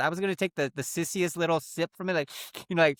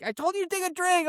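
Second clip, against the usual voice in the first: very high, gleeful imitation; laughing dad. Dad laughing at his drenched kid, high mock glee. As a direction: crow it as if cracking up. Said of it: "he starts laughing".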